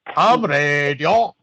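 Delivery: put-on slow, drawn-out Polish-accented ham radio; a Polish accent on request, stretched slowly; mock Polish accent. Cohost asks for Polish accent, slow. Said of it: "say that with a Polish accent".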